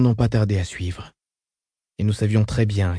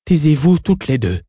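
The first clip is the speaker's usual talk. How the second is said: commanding; 3 semitones higher, 4 dB louder than usual. Acted. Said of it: "ordonna Odrad".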